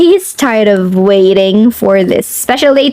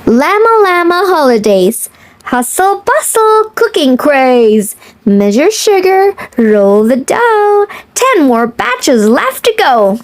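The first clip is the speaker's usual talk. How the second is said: lilting picture-book read-aloud; reading to children; 2 semitones higher than usual. Acted.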